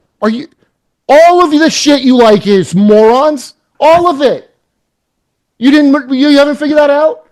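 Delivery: very high, loud, ranting yell. Ranting to the other speakers, not at anyone present: yelling. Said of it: "I don't know who I'm yelling at".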